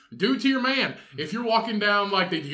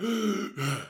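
wheezing gasp; 4 semitones higher than usual. Acted. Wheezing as diabetic fat Batman.

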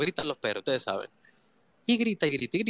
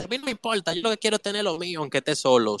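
imitating a self-centred person, higher and fast; mock careless tone, pitched up, rushed; selfish person's voice; 3 semitones higher, faster than usual. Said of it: "hay gente que ... dice". (imitando a alguien egoísta, más agudo y rápido)

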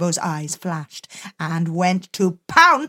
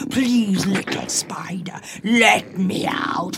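whispered plea. Acted. Leopard begging for release.

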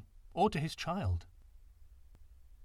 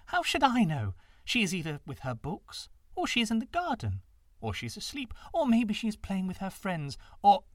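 mocking, careless; 7 semitones higher, 3 dB louder than usual. A narrator's reading. Stepmother mocks the frightened father.

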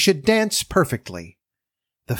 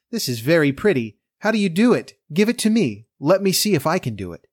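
cartoon princess; 4 semitones higher than usual. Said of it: "said the princess".

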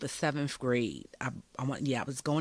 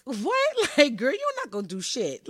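amused scoff at a friend's threat; laughing disbelief; 9 semitones higher than usual. Retold or imitated. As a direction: laugh off a threat you don't believe.

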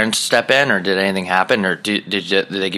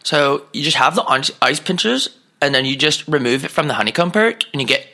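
higher, chattering salesman pitch; eager shop clerk; 5 semitones higher than usual. Retold or imitated. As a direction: rattle off the gear like a keen clerk. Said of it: "He's like".

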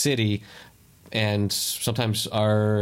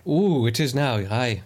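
mock Scottish accent; slower than usual. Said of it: "I switched accents".

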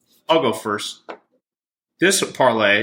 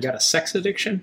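high-pitched coach impression; Jim Harbaugh; 8 semitones higher than usual. Podcast host asking co-host about addiction, high-pitched coach impression. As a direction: put on a coach's voice, pitched well up. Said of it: "That was the host's Jim Harbaugh impression".

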